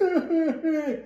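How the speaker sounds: a short, soft, pretend sob; mock sob. Child remembering being teased, mock sob. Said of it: "me ponía a llorar y me ponía muy triste".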